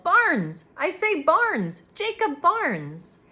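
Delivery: loud call across the room. A narrator's reading. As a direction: call his name from the next room. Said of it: "someone called".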